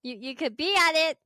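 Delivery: high, loud salesy podcast pitch; cold-call pitch. Pretend. Kid ambushing a video shoot with a pitch, loud and eager. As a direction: pounce on a stranger with a pitch. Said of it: "I might figure out a way of how to just sneak into any conversations".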